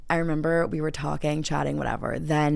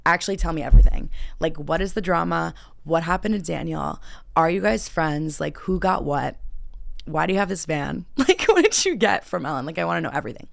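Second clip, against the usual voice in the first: rapid-fire questions; eager gossip. Retold or imitated.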